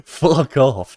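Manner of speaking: loud, high mock outburst; playful yell. Real, not acted. Jokey retort to chat teasing.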